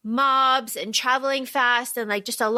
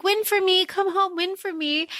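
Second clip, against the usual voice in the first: put-on higher, childlike plea; Prim pleading; 5 semitones higher than usual. Prim pleading with Katniss to come home, higher. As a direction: beg sweetly like a little sister. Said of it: "she's like".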